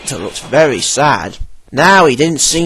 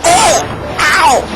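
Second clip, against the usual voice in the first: truck crying out; 13 semitones higher than usual. A narrator's reading. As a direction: yelp as a bumped truck. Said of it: "cried the truck".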